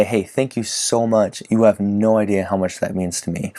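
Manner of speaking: teasing, slightly sarcastic. Acted. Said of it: "kind of teasing a little bit, it's a little sarcastic".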